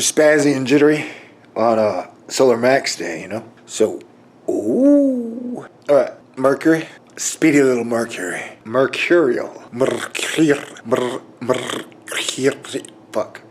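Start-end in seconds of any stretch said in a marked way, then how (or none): 4.5-5.7 high, sustained "oooh"; long swooping ooh held up high; drawn-out ooh. Real, not acted. Reacts with drawn-out exclamation. 9.7-12.8 "Mercur-, mer-, mercury" with long trilled R's; halting, slow tries at trilling the R in "mercury"; rolled R's. Shown as a demonstration. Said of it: "when you roll your R's".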